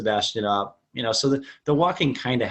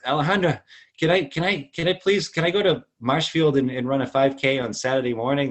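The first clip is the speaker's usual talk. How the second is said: pleading; 4 semitones higher than usual. Retold or imitated.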